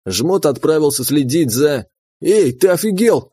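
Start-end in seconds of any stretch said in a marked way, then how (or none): 2.2-3.3 indignant. Acted. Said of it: "возмутился я".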